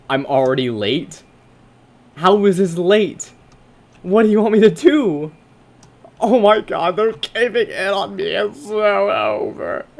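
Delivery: very loud, high desperate yelling; panicked screaming. Real, not acted. Streamer trapped as the room caves in, panicked screaming. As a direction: scream as the walls close in. Walls closing in, timed level.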